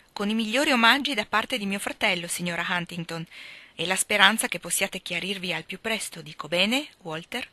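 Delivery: a touch of impudent teasing; cheeky. Acted. Esther hands Helen the rose for her brother, cheeky tease. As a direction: cheekily hand over the rose. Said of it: "disse sfacciata".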